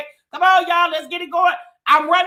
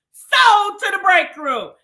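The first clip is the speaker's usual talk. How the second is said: loud, slow mock gavel call; auctioneer's sold call; 4 semitones higher, 6 dB louder, slower than usual. Host closing the like auction, loud slow sold call. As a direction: bang it down like a hammy auctioneer. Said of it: "I sound like I'm at an auction".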